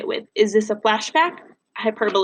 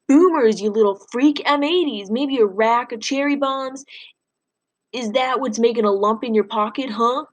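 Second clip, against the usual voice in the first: sneering bully. Acted. Bully Tony D leaning over Freak, taunting him with a sneering voice. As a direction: lean over the small kid and jeer.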